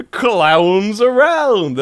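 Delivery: drawn-out, very slow croak through laughter; gravelly voice impression. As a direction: stretch every sound of it out. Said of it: "Just doing my me impression there".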